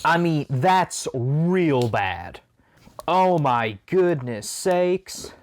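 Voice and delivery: slow words through a sour candy; wincing at the sourness while talking; eating sour candy. Real, not acted. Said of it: "I had that one in my mouth".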